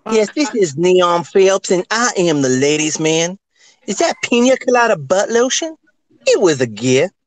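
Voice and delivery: Ladies' Man voice. Retold or imitated. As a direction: croon it like a smooth seducer. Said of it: "I'm gonna do another impression since we just talked about the ladies' man".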